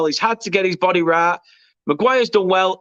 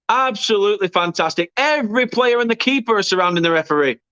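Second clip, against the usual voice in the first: excited; 3 semitones higher than usual. Real, not acted. Commentator still elated after goal.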